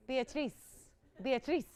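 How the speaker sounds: "Beatrice" tried as bee-ah-TREECE with unrolled R; attempted foreign pronunciation. Shown as a demonstration. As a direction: have a careful go at "Beatrice" with a long ee ending. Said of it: "I can't roll my R's".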